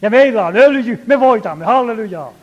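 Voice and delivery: a newspaper reader crowing loudly about oil and victory; retold shouting. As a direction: proclaim it triumphantly to the whole train. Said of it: "Huusi keskellä täpötäyttä junaa".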